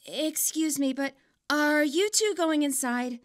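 put-on shy girl asking softly, slowly; a hesitant stranger's quiet question. A narrator's reading. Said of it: "The quiet voice sounds familiar".

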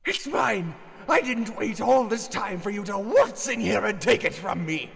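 angry. Acted. Old man guards the emerald angrily.

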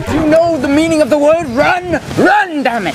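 loud, harsh yelling to hurry him along; furious shout. Acted. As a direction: bark at a lagging kid.

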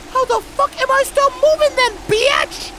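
very high-pitched squealed question; incredulous outburst. Real, not acted. Player answering the broken-back claim, incredulous outburst. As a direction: squeal it in exasperated disbelief. Exasperated retort to game character's claim.

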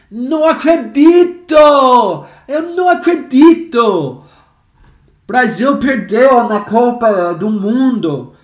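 high, loud cry of disbelief; shocked disbelief. Acted. Teacher acts out Brazil losing the World Cup, loud disbelief. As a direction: exclaim it as a stunned football fan.

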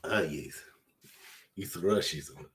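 lightly put-on Russian accent; a touch of mock Russian. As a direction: say it with a slight comic Russian accent. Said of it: "on the Russian accent".

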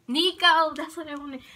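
loud, high burst of remembering; sudden recall. Real, not acted. Vlogger finally remembers the name for a son, excited. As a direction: blurt it out, real excitement.

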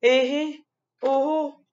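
sing-song warning from mom; mother scolding. Acted. Mom playfully warns the child about candy, high mock scold. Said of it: "Elle me dit".

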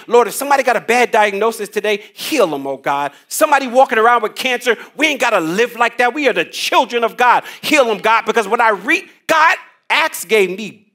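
quick, pleading prayer that swells; urgent preacher's prayer for healing; fervent prayer. Acted. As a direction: pray it out for the sick. Preacher prays aloud mid-sermon.

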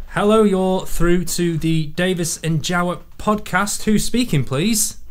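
radio host voice. Acted. Answering a mock phone call.

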